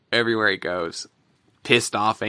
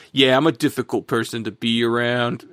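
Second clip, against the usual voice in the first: lightly put-on New York accent; a hint of New Yorker in a quoted line. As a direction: imitate him with a slight New York accent. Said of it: "I give him a New York accent".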